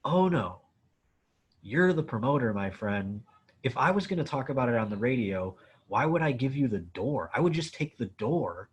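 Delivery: talking down to a useless promoter, acted out with rising disbelief; retold indignant telling-off. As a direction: lecture the promoter, incredulous and a bit smug. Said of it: "I go".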